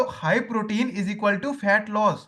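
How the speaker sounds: very slow, word by word; slow dictation. Shown as a demonstration. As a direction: dictate it slowly to the class. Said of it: "एक चीज लिख लो". (धीरे-धीरे लिखवाते हुए)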